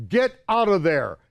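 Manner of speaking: mock yell of guards shouting; retold yelling. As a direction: shout it like angry guards ordering him off. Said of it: "in their broken English".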